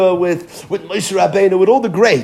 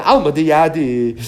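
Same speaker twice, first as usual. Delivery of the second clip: slow Gemara reading; slower than usual. Shown as a demonstration. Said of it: "Says the Gemara".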